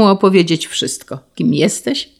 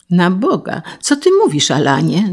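jumping up in pitch in disbelief; astonished exclamation. Acted. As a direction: cry out, stunned by the news. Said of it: "Zawołał Hugon".

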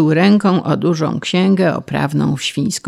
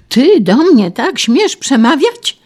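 loud, high, drawn-out outrage; outraged shriek; 9 semitones higher, 6 dB louder than usual. A narrator's reading. Official outraged at a peasant talking back, shrieking. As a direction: shriek it slowly, word by word. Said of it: "Wrzasnął pan Krajzamt".

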